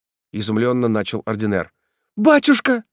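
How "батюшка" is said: put-on high pleading girl's cry; a daughter's high, loud plea; Ethel's cry. A narrator's reading. Ethel cries out to her father, pleading. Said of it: "вскричала Этель".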